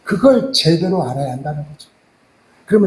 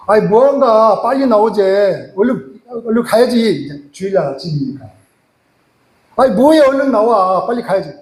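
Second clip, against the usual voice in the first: nagging mother-in-law. Retold or imitated. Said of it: "장모님이 이제 이야기해요".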